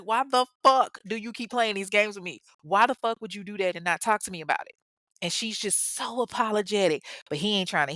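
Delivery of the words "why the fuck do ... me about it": acted exasperated demand, pitch lifted; mildly heated mock confrontation; mad. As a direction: retell his angry questioning with punchy stress. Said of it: "the nigga mad".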